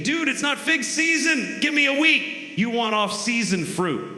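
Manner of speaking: high, far squeaky protesting tree voice; a fig tree whining it's not in season; mock fig tree. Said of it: "the tree's probably thinking".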